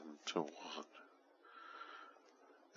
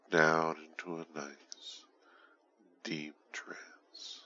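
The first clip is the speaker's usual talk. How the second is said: whispering; slower than usual. Acted. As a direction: breathe the words out. Whispered trance suggestion.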